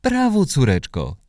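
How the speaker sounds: mother hugs daughter after her first slide, delighted; joyful mother. A narrator's reading. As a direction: praise your daughter, bursting with joy. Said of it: "zawołała".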